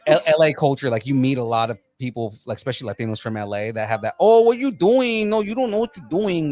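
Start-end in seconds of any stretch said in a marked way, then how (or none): 4.2-6.5 put-on Valley Latino accent. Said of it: "that stupid ass, you know, Valley Latino accent".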